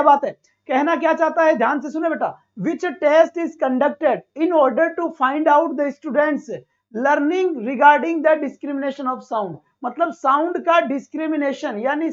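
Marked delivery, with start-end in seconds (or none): 2.6-9.6 reading the English question very slowly, word by word; slow dictation reading. Shown as a demonstration. Teacher reads the exam question very slowly to students. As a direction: spell the question out slowly for the class.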